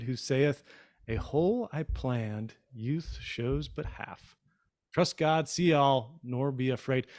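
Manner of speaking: slow, measured poem recital with pauses; poem reading. Acted. Host reading a love poem to his wife, slow and measured. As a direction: read it slowly and tenderly for your wife.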